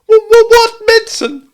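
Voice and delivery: very high, loud stuttering squeak; alarmed stammer. A narrator's reading. Piglet hearing Kanga mention medicine, alarmed stammer.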